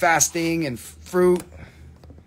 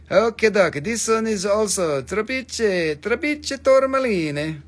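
playful sales pitch in a higher put-on voice; put-on seller voice; 7 semitones higher, 5 dB louder than usual. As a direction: ham up a pushy gem saleswoman.

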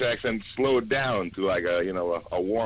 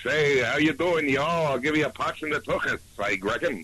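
put-on Jewish Texan accent. Guest joking about picked-up accents, Jewish Texan accent. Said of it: "especially if you're Jewish".

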